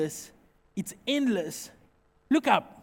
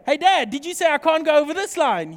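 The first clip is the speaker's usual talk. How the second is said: daughter Rebecca questioning; 3 semitones higher, 5 dB louder than usual. Retold or imitated. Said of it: "It's like my daughter, Rebecca".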